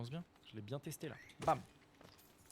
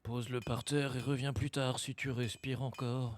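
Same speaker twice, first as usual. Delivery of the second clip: voix de vieux forgeron légèrement grave. Acted. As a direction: joue un vieux scarabée bourru. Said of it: "Je vais pouvoir faire ma voix de vieux". (voix de très vieil homme)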